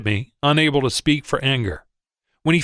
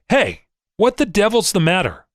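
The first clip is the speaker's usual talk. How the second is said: raised, higher angry yell; 6 semitones higher than usual. A narrator's reading. Angry broker yelling at the trader by the ticker. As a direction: storm in and yell the question. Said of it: "ran to where I stood by the ticker and yelled".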